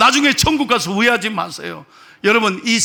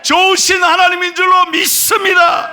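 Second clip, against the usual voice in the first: high, loud proclaiming; full-force sermon cry of faith; preaching shout; 8 semitones higher, 4 dB louder than usual. Real, not acted. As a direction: ring it out over the congregation.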